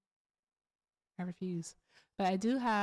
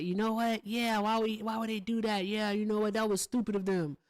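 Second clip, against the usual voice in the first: mock Trump supporter. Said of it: "a Trump supporter is going to ... think to themselves".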